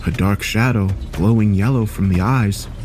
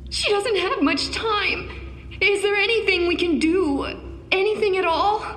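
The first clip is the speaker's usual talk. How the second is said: desperate plea; 5 dB quieter than usual. Acted. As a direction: beg through tears. Distressed mother begging.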